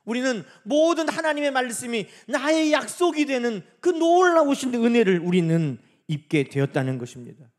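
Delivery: loud, swelling sermon delivery; forceful preaching. Real, not acted. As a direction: proclaim it to the congregation with force.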